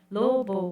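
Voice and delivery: "Lobo" split into two clapped syllables, lo-bo; "Lobo" stressed on each syllable; syllables counted. Shown as a demonstration. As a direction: say "Lobo" slowly, beat by beat. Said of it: "bate duas palmas".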